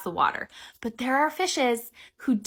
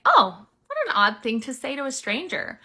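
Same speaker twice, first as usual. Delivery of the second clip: pointed retort; 4 semitones higher than usual. Shown as a demonstration. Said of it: "So I say things like".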